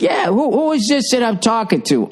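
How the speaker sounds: lightly voiced confused stranger leaving a message; caller voice. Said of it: "The guy's like".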